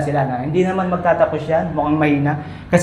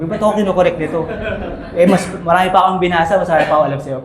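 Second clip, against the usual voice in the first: hurt pride; 2 semitones higher, much faster than usual. Retold or imitated. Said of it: "nasasaktan ako".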